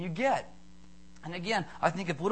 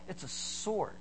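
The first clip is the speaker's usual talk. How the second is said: put-on little boy; 8 dB quieter, slower than usual. Voicing boy answering video store clerk.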